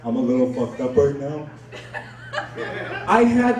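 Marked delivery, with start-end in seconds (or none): 0.1-1.5 mock-serious stoned admission; serious high. Shown as a demonstration. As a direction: say it low-key, seriously high. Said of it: "I'm talking like that serious".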